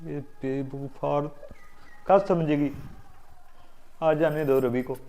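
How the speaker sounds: low-pitched private grumble once she has gone; grumbling to oneself. Acted. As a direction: mutter a threat under your breath. Left alone, grumbles to himself.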